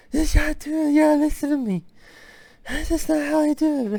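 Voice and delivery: very high, dry, parched-throat voice. Reviewing a film, imitating how the lead lady talks: imitating the lead lady's dry voice. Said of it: "At least a third of her dialogue is her talking like this".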